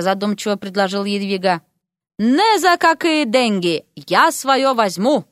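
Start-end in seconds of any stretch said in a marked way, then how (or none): 2.2-5.2 slow, firm refusal; resolute. Acted. Second groom refusing a payoff, slow resolute refusal. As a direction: plant your feet and refuse. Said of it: "решительно ответил жених номер два".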